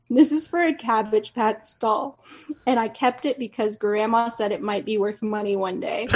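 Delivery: retold mom's amused explanation; laughing toward the end; losing it laughing. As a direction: let a laugh creep into the quote. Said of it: "loses it laughing".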